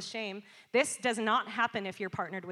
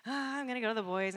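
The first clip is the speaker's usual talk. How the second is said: high, loud forced okay; reluctant agreement; 3 semitones higher, 4 dB louder than usual. Retold or imitated. Mom agreeing to go apologize to the boys, reluctant. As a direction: give in with a raised, strained okay. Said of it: "So I'm like".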